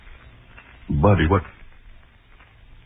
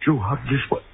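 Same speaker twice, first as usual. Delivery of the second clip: horrified; 7 semitones higher than usual. Acted. Recognizing Joe's corpse.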